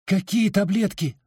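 tearful cry. A narrator's reading. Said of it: "в слезах выкрикнула девушка".

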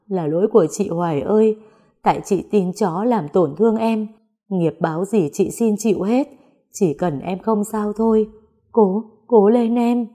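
a touch of sobbing, pleading voice rising at the end; tearful begging. Acted. Sister pleading over unconscious Hoài, tearful begging. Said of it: "Chị mếu máo năn nỉ".

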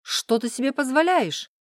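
an affronted father scolding; indignant. Acted. Father outraged at daughter kissing a young man, loud indignant. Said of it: "возмутился он".

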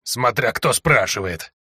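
slow hoarse croak with a hint of irony; hoarse and ironic. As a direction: echo her words back dryly, slowly. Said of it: "В хриплом голосе пленницы чувствовалась нотка иронии". (хрипло, с ноткой иронии)

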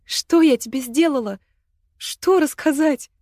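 high, loud, slow crying plea; tearful plea. Acted. Мила, cornered by Агата with knife, crying high. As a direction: sob out in confused despair.

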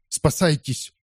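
high shouted warning. A narrator's reading. Andrea to everyone: high shouted warning. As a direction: yell to save them. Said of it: "крикнул он".

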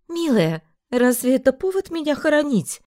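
lightly voiced proud mother; warm mother voice. A narrator's reading. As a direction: embrace her with the voice.

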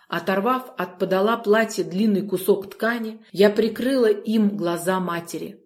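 usual speaking voice

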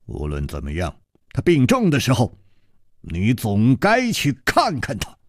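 a hint of a low older voice; 楚留香 advising. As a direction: gently urge him. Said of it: "楚留香说". (楚留香低声劝说)

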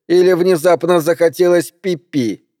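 lightly acted babying sarcasm; mock-sweet taunt. A narrator's reading. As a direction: taunt as if talking to a small child. Ann taunts the operator.

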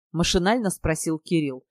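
ordinary delivery, nothing marked

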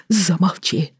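hissed cry in a different voice; horrified hushed outburst; whispered shout. Acted. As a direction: yell it under your breath in disgust. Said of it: "шёпотом закричал Роман".

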